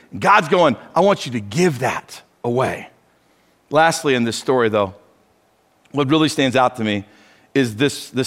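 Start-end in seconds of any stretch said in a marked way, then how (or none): 0.9-2.9 lower, softer, a gentle God speaking; lightly voiced God calling you to give. God's voice quoted in sermon.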